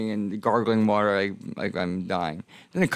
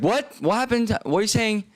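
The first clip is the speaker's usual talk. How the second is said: high, rising confused squawk of a clerk; baffled disbelief; 12 semitones higher than usual. Retold or imitated. Booth clerk hearing about bear mace, baffled high disbelief. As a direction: play the booth clerk who can't follow the story.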